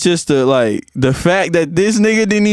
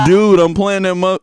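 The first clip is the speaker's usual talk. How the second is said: higher, mock-hyped exclamation; hyped fan; 4 semitones higher than usual. Reading cousin's texts to a friend, hyped. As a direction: imitate an overexcited fan.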